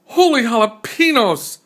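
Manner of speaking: high, loud surprised cry; excited exclamation. A narrator's reading. Kitten tumbling into toys, yelping in surprise. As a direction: yelp it out in delight. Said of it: "exclaimed Skippy John Jones".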